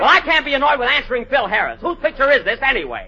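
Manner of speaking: high, argumentative comeback; offended star protesting; indignant retort. Acted. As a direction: pull rank on the director. Actor argues back.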